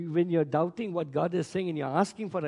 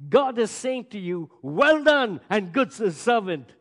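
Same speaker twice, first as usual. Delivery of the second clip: raised, loud "well done" as a prophet; retold prophetic declaration; 3 semitones higher, 6 dB louder than usual. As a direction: proclaim it like a quoted prophecy. Retelling a prophet's declaration to him.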